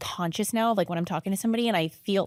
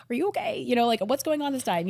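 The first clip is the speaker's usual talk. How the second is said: worried husband; 6 semitones higher than usual. Retold or imitated. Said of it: "My husband's like".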